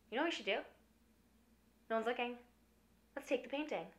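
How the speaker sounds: soft, sneaky suggestion; conspiratorial hush. Retold or imitated. Zero suggesting to Gustav they steal the painting, hushed. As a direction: lean in and plot quietly.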